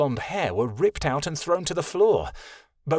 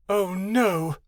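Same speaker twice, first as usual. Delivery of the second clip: alarmed cry; 6 semitones higher than usual. A narrator's reading. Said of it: "Vera cried".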